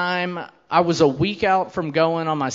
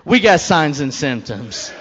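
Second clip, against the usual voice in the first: panicked correction; 4 dB louder, slower than usual. Retold or imitated. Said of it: "And I was like".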